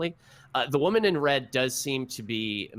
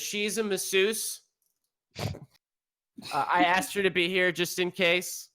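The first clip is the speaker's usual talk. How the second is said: Roger explaining; 8 semitones higher than usual. Acted.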